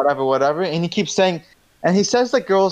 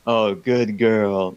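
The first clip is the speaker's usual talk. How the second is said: put-on creepy old teacher; 7 semitones lower, much slower than usual. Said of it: "that's literally how he said it".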